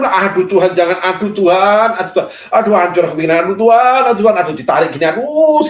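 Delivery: quick, pleading mock lament to God; hammed-up groaning plea, rushed in spots; mock anguished cry. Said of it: "Gelombang itu datang". (meratap pura-pura kepada Tuhan)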